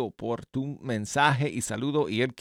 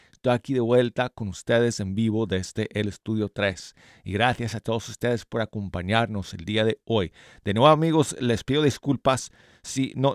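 talking through new braces. Real, not acted. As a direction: speak around fresh braces. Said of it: "me pusieron los brackets en los dientes". (hablando con brackets)

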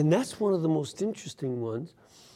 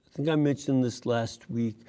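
ordinary delivery

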